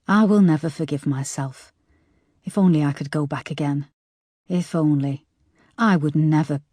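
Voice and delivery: choked up, pressing through tears; tearful. A narrator's reading. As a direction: speak as if crying. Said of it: "wiping hot tears away".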